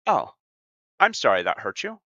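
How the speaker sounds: a hint of a smug fake-sorry manipulator; role-playing a manipulator. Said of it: "almost triggering for me to role play this".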